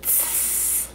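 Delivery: Tss with the air pushed into a long S; lazy T. Shown as a demonstration. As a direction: stretch the T into a hiss. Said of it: "I need to push the air".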